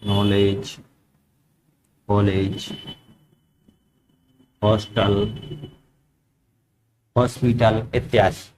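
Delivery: नॉलेज and कॉलेज said low and soft, the ऑ drawn out between आ and ओ; ऑ sound dictated. Shown as a demonstration. Teacher slowly dictating examples of the ऑ sound for students to write. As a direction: dictate हॉस्टल, हॉस्पिटल slowly, the ऑ halfway from आ to ओ. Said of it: "आ और ओ के बीच में आती है".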